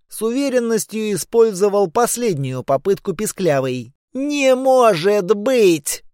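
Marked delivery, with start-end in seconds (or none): 4.1-6.0 slow, stunned giant cry; shocked giant voice; giant disbelief. Acted. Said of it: "отрицали Кац и Миц".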